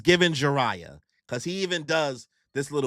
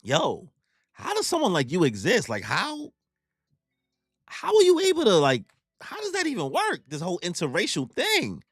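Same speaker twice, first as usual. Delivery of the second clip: acted-out bewilderment, pitch jumping high mid-question; baffled, high-pitched stammering questions; confused; 5 semitones higher than usual. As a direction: fumble the question in mock disbelief. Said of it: "they're, like, confused".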